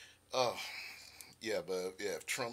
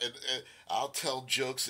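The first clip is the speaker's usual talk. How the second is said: usual speaking voice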